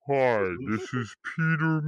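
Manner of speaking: slow, muffled taped voice; slowed recording voice. Pretend. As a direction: talk like a slowed-down tape. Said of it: "It's the slow recording".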